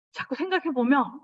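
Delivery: ordinary talk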